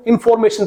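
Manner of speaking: इन्फॉर्मेशन as in-FOR-may-shun; common mispronunciation. Retold or imitated. Teacher quoting how students pronounce it, इन्फॉर्मेशन with full FOR. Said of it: "लेकिन आप mostly देखना".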